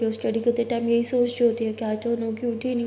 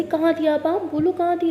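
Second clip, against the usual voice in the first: accusing demand; 4 semitones higher, 5 dB louder than usual. Acted. Girlfriend demands where she was.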